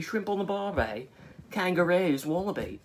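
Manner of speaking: high-pitched mock Aussie accent; stereotypical Australian accent. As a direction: put on a squeaky caricature of an Australian. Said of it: "like the stereotypical one".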